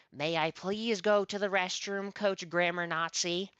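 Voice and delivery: mock politeness. Mocking request to the coach.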